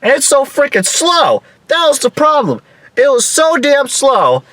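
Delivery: high-pitched, worked-up griping; exasperated complaint. Retold or imitated. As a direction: whine in frustration at the slowness. Reliving exasperation at slow climb.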